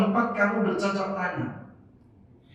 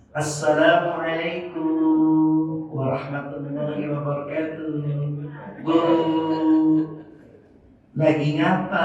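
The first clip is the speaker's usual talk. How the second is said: tender greeting; 2 semitones lower than usual. Shown as a demonstration. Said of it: "Sekarang berubah intonasinya".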